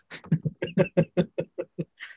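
high-pitched chuckle trailing on; laughter. Real, not acted. Host amused by George's retold line, high laughter. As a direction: laugh at your own retold joke.

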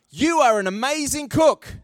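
encouraging praise. Pretend. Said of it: "you could say".

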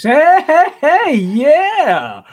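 loud, high-pitched whoop of delight; real excited hollering; excited cheering. Real, not acted. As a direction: cheer it out, breaking into a laugh. Thrilled reaction on reading the news.

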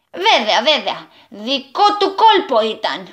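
lightly voiced slow realisation; couple in unison. A narrator's reading. Man and lady realise the goblin's trick, in unison. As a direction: agree together, slowly waking up. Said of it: "φώναξαν με μία φωνή".

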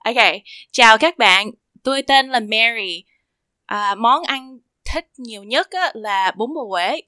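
careful, evenly paced Vietnamese introduction; Google Translate voice. Real, not acted. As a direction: sound lightly like a translation app. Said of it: "sound like the Google Translate".

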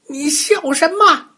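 high, loud furious challenge; loud angry demand. Acted. Bully shouting angrily at the laughing tumbler doll. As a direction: snap it at the laughing toy. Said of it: "大声说".

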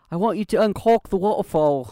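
British accent, "uncork" with a clipped vowel like cock; mock British old man, stress on "uncork". Shown as a demonstration. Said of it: "with a British accent, it sounds like".

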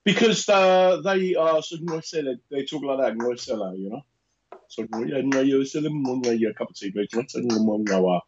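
mock South African speech with odd sounds; South African accent. Shown as a demonstration. Co-host shows how he imitates South Africans, put-on South African accent. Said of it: "like I'm South African".

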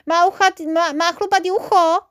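high, loud, delighted cry; thrilled kid calling out a discovery; excited shout. A narrator's reading. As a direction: blurt it out with great enthusiasm. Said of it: "vykřikl Žilka Pilka nadšeně".

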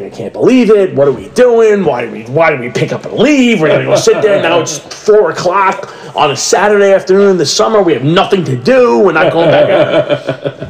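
exasperated rant. Retold or imitated. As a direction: complain all the way home, worked up. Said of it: "the whole way home, I'm like".

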